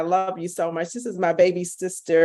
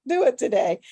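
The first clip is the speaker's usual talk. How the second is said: emphatic urging; 7 semitones higher than usual. Retold or imitated. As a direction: repeat it higher and firmer, leaning on do. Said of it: "and I just said".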